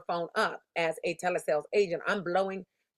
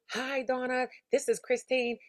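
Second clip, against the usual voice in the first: higher, upbeat rehearsed greeting to a client; rehearsed sales greeting; 5 semitones higher than usual. Shown as a demonstration. Rehearsing her greeting to the client on the street, eager and higher. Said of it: "Like, I'm practicing this".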